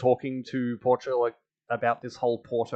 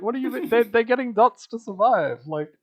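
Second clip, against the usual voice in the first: exasperated disbelief; 10 semitones higher, 4 dB louder than usual. Retold or imitated. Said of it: "I was like".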